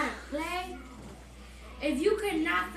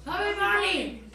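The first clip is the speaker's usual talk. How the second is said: cheeks stuffed full; 5 semitones higher, 3 dB louder than usual. Real, not acted. Mouth full of marshmallows.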